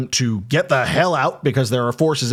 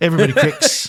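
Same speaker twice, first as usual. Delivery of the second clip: put-on New Zealand accent, pitched up; 5 semitones higher, 3 dB louder than usual. Repeating the clones' line "everybody cracks": New Zealand accent. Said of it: "my New Zealand accent".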